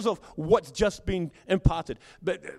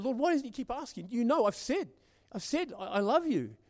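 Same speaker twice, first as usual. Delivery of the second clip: upset; 3 semitones higher than usual. Retold or imitated. Peter protesting to Jesus after the third question, mildly upset. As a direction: act out a touch of hurt exasperation. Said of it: "Peter becomes very upset".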